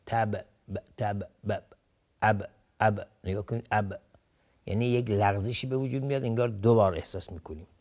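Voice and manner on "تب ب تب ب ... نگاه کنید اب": final ب released with an echoing bounce, as in تب; qalqala bounce. Shown as a demonstration. Teacher showing the echoed letter, qalqala bounce on ب. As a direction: bounce the ب in اب, as if sounded twice.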